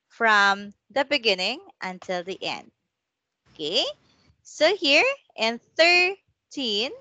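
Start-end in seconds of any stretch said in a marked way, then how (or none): 4.4-6.9 put-on "thirteen" pitched up, leaning on teen; teacher explaining stress in "thirteen"; stress on the end. Shown as a demonstration. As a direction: show where the stress lands in "thirteen". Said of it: "the stress is on the end".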